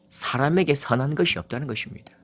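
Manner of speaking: hushed whisper for emphasis; a whispered sermon point. Real, not acted. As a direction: breathe it, unvoiced and soft. Preacher drops to whisper.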